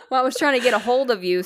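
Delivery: high, fast laugh through words; giggling while speaking. Real, not acted. Laughing at partner.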